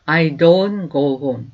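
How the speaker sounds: slow, clear teacher's model, each word apart; slow demo pronunciation; slow model sentence. Shown as a demonstration. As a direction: say it slowly for students to repeat. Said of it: "do not을 써서".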